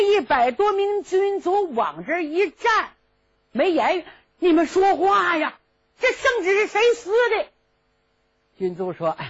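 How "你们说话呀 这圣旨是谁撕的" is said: higher, pressing voice; demanding prince. Acted. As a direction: push them to answer.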